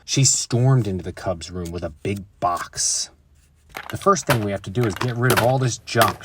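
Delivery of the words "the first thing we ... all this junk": fed up. Acted. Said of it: "she said".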